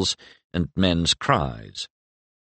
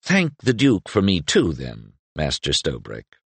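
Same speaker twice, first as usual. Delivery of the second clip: acid edge; 2 semitones lower than usual. Acted. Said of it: "the acid edge".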